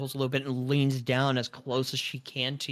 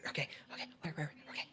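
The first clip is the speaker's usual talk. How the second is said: whispered mutter; 13 dB quieter, much faster than usual. Retold or imitated. Player muttering to self, searching.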